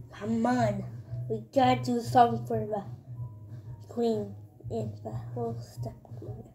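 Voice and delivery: unvoiced conspiring whisper. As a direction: whisper the plan. Plotting minions whisper.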